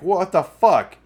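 slow, loud, high outraged what the fuck. Retold or imitated. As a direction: stretch it out, loud and high, in disbelief. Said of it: "you're like".

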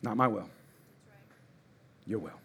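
low, soft, hushed prayer; quiet surrender. Shown as a demonstration. Pastor modeling a daily prayer, soft and low. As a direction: let go of your will gently. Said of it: "I gotta get up and say".

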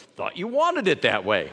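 a lightly voiced deadpan husband; mock husband reply. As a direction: toss it back like a shrugging husband. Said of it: "He goes".

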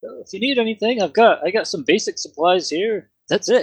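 put-on Canadian shopkeeper; mock Canadian accent. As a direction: offer goods in a high Canadian accent. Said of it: "And he had an accent".

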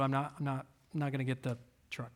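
fast, sulky whisper; a babyish sulking whisper. Retold or imitated. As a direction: mutter it like a pouting child giving in. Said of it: "So I'm sulking like a baby".

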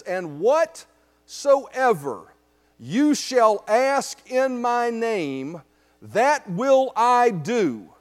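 very slow, word-by-word proclamation; solemn scripture reading. Acted. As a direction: read it as Christ's own words, weighing each word. Reads Jesus's words to congregation.

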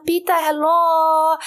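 high, slow, drawn-out vampire greeting; cool vampire voice. Retold or imitated. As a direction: greet Pita like a theatrical vampire. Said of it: "have been talking in that voice for days".

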